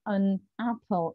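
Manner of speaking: "an apple" said slowly, the "an" held apart from "apple"; split an apple. Shown as a demonstration. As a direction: separate "an" and "apple" deliberately. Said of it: "they wouldn't say".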